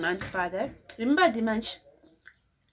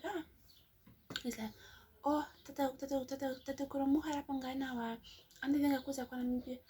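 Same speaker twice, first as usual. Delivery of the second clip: imitating the neighbor; 3 semitones higher, 5 dB quieter than usual. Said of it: "this is exactly what this man says".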